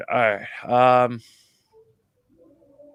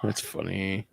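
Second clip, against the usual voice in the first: amused whisper under the breath; soft whispered my goodness; whispered reaction; 4 semitones lower, 8 dB quieter than usual. Real, not acted. Reacting to the smuggling story.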